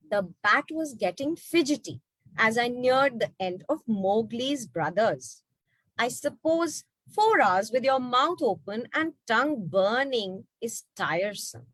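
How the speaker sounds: put-on reading a children's book aloud; story reading. A narrator's reading. Storyteller reading the book to the children. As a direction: read it like a bedtime story.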